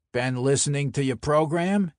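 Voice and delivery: lightly voiced Brooklyn mobster; chatty enforcer with a Brooklyn accent; a hint of a Brooklyn wiseguy; Brooklyn mob enforcer.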